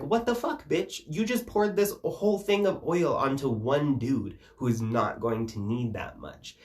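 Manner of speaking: high, indignant mock squawk; mock outraged apostles. Apostles scolding Bethany over the oil, mock outrage. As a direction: sneer it like a scandalised gossip. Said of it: "the other apostles ... are like".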